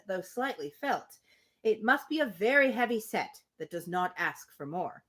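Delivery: measured, even storybook reading; steady literary narration; reading a novel aloud. Acted. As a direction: read the passage to the group like an audiobook.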